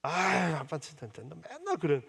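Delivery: slow, whiny daughter grumble; mock annoyed daughter. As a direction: lightly voice a teen brushing off dad. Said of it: "맨날 싫다고 그래요".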